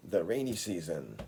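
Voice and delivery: The rainy season said slowly and deliberately for copying; slow clear model of The rainy season; slow model read. Shown as a demonstration. Teacher giving a careful native model to imitate, slow and clear. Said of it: "僕のネイティブの喋り方と発音を真似してください".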